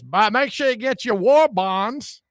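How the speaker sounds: slow, lightly voiced 1930s ad pitch; old-time commercial. Mocking a 1938 radio commercial, slow vintage ad voice. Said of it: "That was some commercial, like, nineteen thirty-eight".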